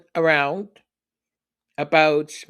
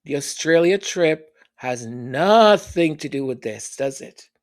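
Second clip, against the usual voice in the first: knowing group recital; 3 semitones lower than usual. Pretend. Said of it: "we can all say it together".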